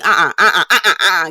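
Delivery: chuckling refusal; playful uh-uh; laughing uh-uh. Real, not acted. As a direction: shake it off with a laugh.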